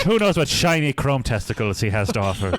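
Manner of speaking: put-on Irish brogue with laughter; Liam Justice, Irish accent. Podcaster as the reviewer wondering about the Tin Man, in mock Irish. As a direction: muse suggestively in a joky Irish accent. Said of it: "questionable attempt at an Irish accent".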